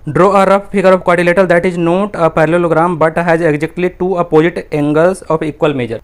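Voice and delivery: very slow, word by word, for pupils to copy; teacher dictating a maths question; slow dictation. Shown as a demonstration. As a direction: read it out so they can write along. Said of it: "reading out the question slowly".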